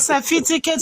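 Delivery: certificate said as "sefiticate", f and t swapped; mock the slip, saying certificate as "seh-FI-ti-ket"; mocking mispronunciation. Mocking someone's word for the debaters, certificate mispronounced as "sefiticate". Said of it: "and you call certificate".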